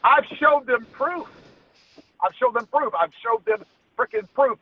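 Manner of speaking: frustrated rant. Real, not acted. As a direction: hammer home that you showed proof. Ranting about ignored proof.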